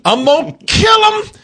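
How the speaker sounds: yelled high and loud, losing it; shouted threat. Retold or imitated. Viewer snapping at the bear, yelling high and loud. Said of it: "you think".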